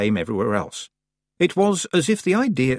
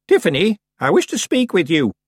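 put-on old witch calling across the room, raised and high; 8 semitones higher, 5 dB louder than usual. A narrator's reading. Old witch calling her apprentice from across the room. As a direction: call her name out to the girl. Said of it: "Miss Treason called out".

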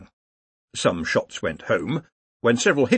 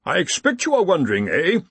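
happy gloating; 8 semitones higher, 3 dB louder than usual. A narrator's reading. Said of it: "said the dean happily".

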